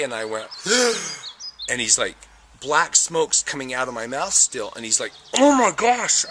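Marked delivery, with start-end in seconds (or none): 0.5-1.6 higher gasping intake of breath; sudden revived gasp; sharp gasp. Retold or imitated. Spontaneous first breath. 5.4-6.2 much higher, louder oh my gosh; horrified son exclaiming; shocked gasp. Retold or imitated. Son sees smoke from mouth.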